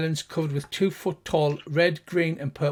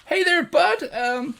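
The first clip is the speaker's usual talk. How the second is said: high, louder gnome voice; gnome guard calling out; 11 semitones higher, 5 dB louder than usual. Acted. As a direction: call across the waterfall as a nervous gnome. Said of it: "One of the gnomes shouts out".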